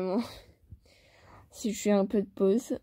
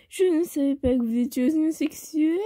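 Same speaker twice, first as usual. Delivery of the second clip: distorted camp voice; 3 semitones higher than usual. Acted. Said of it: "j'ai déformé la voix en mode homosexuel".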